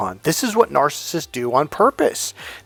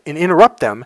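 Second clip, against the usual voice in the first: usual speaking voice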